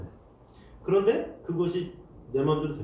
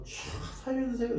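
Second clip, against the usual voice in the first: higher begging 주여, 살려주세요; wrong prayer; 8 semitones higher, 5 dB quieter than usual. Shown as a demonstration. Preacher showing the wrong prayer, higher begging. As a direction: cry 주여, 살려주세요 in panic. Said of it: "이게 아니라".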